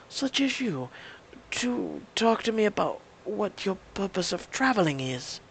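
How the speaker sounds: a hint of an Eastern European accent, halting; broken-English accent. A light Romanian accent, stumbling over words. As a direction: GM voicing a foreign woman with halting English. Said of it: "tenacious grasp of the language".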